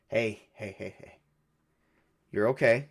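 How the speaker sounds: hushed, low, soothing hey; calm a frightened friend softly; softly comforting, unhurried with pauses; gentle reassurance. Acted. Comforting a frightened, tearful companion.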